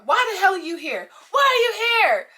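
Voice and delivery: high-pitched furious yell over the music; yelling, going ballistic. Retold or imitated. Bartender confronting an unwanted visitor over loud music, ballistic yelling. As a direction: build from a heated demand to a high yell. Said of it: "I am yelling, going ballistic".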